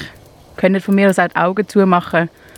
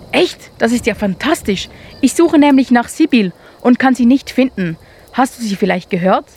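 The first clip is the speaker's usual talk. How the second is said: higher, eager and amazed; excited; 4 semitones higher, 4 dB louder than usual. Acted. Mole eagerly asks the hare for help. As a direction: leap at the hope. Marvin delighted by hare's hearing.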